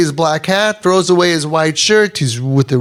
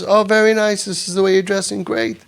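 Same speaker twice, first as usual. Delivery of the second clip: mock sarcastic parent; 3 semitones higher, 3 dB quieter, faster than usual. Parents' sarcastic remark, what not to say.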